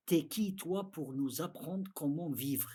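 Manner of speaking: arrogant challenge. Retold or imitated. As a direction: hurl it back proudly, a touch mocking. Proud Meccans defying the prophet.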